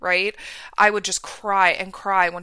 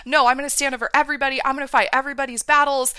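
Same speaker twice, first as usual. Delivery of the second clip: fired-up vow; 4 semitones higher, 6 dB louder, faster than usual. Retold or imitated. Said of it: "that was like".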